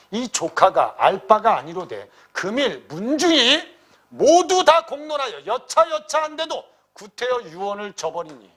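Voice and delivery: high, loud, drawn-out remonstrance; loud protest. Acted. Nephew protesting to his uncle before the clan, loud protest. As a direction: raise your voice, slow and insistent, as in a read-aloud plea. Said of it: "통곡하여 큰 소리로 말합니다".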